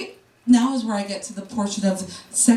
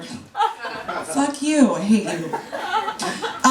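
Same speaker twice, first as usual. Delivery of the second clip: mock hate; 2 semitones higher, much slower than usual. Mock rant at Nair, laughing.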